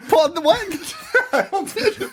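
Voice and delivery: very high, laughing attempt at Irish; a bad Irish accent that comes out like a witch; witchy Irish attempt. Shown as a demonstration. Host failing an Irish sign-off, high witch-like voice. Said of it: "me trying to do an accent".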